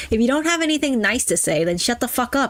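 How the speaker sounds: playful fake bluntness; old-school sass. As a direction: sass it like an old-timer's line. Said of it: "That's how they said it back in the days".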